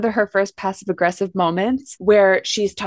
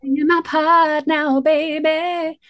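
much higher and slow, sugary-sweet diva put-down; pop diva; 7 semitones higher, slower than usual. Retold or imitated. A singer scolding her backup singers onstage, higher and slow. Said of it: "And she's like".

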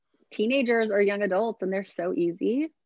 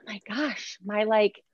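excited gasping mom, pitch climbing; a touch of thrilled delight; gushing; 4 semitones higher than usual. Retold or imitated. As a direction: gush over the sweet moment. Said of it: "And I was like".

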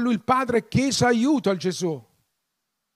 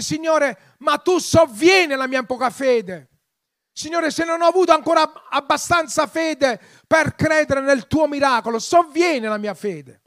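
higher-pitched, impassioned imitation of pleading; retold pleading cry; 4 semitones higher than usual. Preacher voicing the father asking help for little faith, fervent plea. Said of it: "piangendo davanti al Signore".

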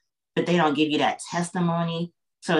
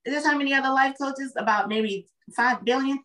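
high, lively, quick riff; playful raised-voice rant; animated; 7 semitones higher than usual. Real, not acted. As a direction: poke fun with energy. Animated riff on life coaches.

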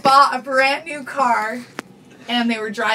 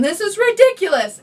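husband fuming at the other driver, a mild mock yell; retold angry yell; 8 semitones higher than usual. Mild mock yell at the other driver after the wreck. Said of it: "screaming at the other person".

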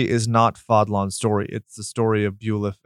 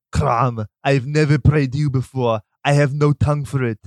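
mock-epic Conan prayer; 3 semitones higher than usual. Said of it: "You'll recall".

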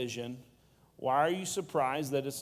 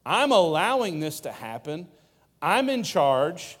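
louder, emphatic voice of Jesus; bold, insistent reassurance; paraphrasing Jesus, louder; 6 dB louder than usual. Retold or imitated. Pastor voicing Jesus telling the crowd to chill, louder and emphatic. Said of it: "He's saying".

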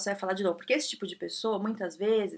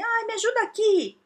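whiny coworker asking; 12 semitones higher than usual. Retold or imitated. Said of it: "vem alguém e fala assim".

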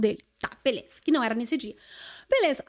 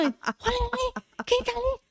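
teasing call; 9 semitones higher, 4 dB quieter than usual. Retold or imitated. Friend points him out.

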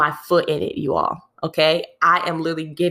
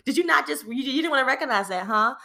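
much higher, laughing incredulous questions; indignant disbelief; 8 semitones higher than usual. Retold or imitated. Picturing her boss, higher incredulous did you not questions. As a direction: demand to know why it wasn't noticed. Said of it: "that was honestly what I felt".

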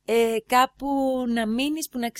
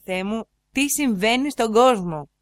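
slow, louder mock dismay; exasperated disbelief; 5 dB louder, slower than usual. Walking away from the man in the car, exasperated. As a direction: draw it out in exasperation. Retold dismayed reaction to strangers' approaches.

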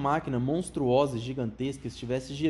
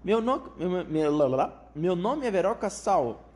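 lightly voiced girl; 4 semitones higher, 3 dB louder, slower than usual. A narrator's reading. Girl introducing herself.

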